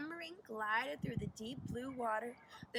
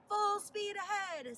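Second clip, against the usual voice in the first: higher, louder, slow urgent command; urgent order; 7 semitones higher, 5 dB louder than usual. A narrator's reading. Boy tugs the captain's sleeve, urgent. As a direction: urge the captain on. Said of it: "said Zack".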